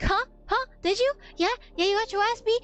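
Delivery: mock taunting. Boyfriend goading the creep over the phone, mock taunting. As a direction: imitate someone pressing for an answer.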